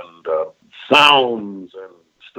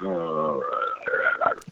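a lightly gravelled, much lower villain voice; Destro voice; 6 semitones lower, 10 dB quieter than usual. Shown as a demonstration. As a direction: growl it low like the villain Destro. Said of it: "I've gotta gravelize my voice".

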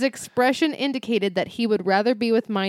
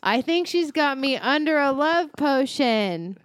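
hammed-up cry of despair, pitched higher; dramatic read; 6 semitones higher than usual. Shown as a demonstration. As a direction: ham up the exclamation like a soap star. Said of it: "Such a performer".

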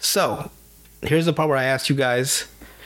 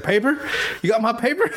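a lightly voiced creepy stranger, much higher; creeper voice; 9 semitones higher than usual. Creeper in the driver's seat asks the gang for his paper, much higher. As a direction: ask for the paper like an odd villain. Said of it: "He's like".

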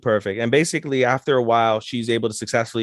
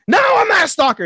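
frantic yell; 6 dB louder than usual. Acted. Kaguya denying she's a stalker, frantic high yell. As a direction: shout it high and loud. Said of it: "And she goes to walk in".

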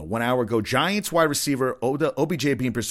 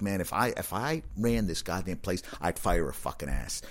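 grumbling aside; 5 semitones lower, 7 dB quieter than usual. Retold or imitated. Muttered inner thought after the gate.

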